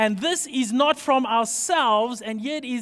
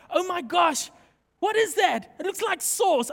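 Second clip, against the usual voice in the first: surprised; 6 semitones higher than usual. Retold or imitated. Retelling surprise at odd food.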